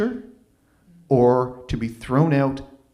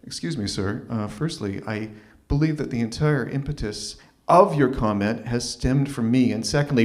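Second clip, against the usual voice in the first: polite restraint; 3 semitones lower than usual. Retold or imitated. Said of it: "articulately and politely say".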